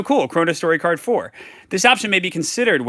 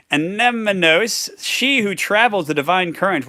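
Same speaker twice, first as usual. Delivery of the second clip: lightly put-on, higher herald; royal herald voice; 6 semitones higher than usual. Creature presenting the Empress, lightly ceremonial higher voice. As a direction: announce with higher, slightly ceremonial lilt.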